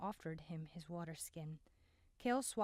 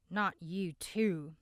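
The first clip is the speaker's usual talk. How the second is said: a sharp angry snarl, a bit louder; 7 dB louder, much slower than usual. A narrator's reading. Desmond snarls at Ayanna after she defends Vian, angrily. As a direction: spit it back at her, lightly snarled. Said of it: "he snarled".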